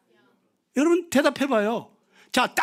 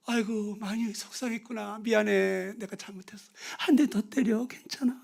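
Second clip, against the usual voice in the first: much softer, fading into a whisper; mock meek apology; 6 dB quieter than usual. Preacher voicing the one who forgives, hushed and tender. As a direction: coax and soothe the man who insulted you. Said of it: "이렇게 들이댈 수 있겠습니까?".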